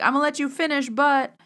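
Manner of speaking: high, loud interrupting cut-in; rapper impression. Retold or imitated. A rapper cutting in on a pop singer, loud interruption. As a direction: barge in loudly, then hang on "but". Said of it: "I felt like a rapper doing this".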